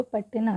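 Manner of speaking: पटना with only a brief ट, no full vowel after it; touch the ट in पटना briefly, straight into ना. Shown as a demonstration. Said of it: "थोड़ी देर के लिए आ रही है". (पटना में ट बस थोड़ी देर, बिना अ के)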